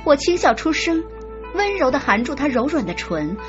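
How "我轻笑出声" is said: plain reading voice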